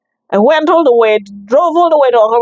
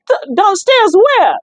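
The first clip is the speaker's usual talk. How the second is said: retold confusion; 10 semitones higher, slower than usual. Confused about where to go.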